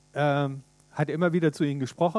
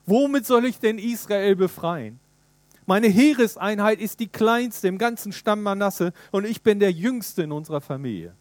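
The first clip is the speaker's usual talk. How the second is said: higher, pleading protest; objecting Gideon; 4 semitones higher, 4 dB louder than usual. Acted. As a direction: plead your smallness. (Gideon wehrt sich beim Engel, höher und flehend)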